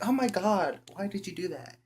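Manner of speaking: high-pitched shriek of outrage, then settling; mock-shocked high girl voice. Girl reacting to being groped.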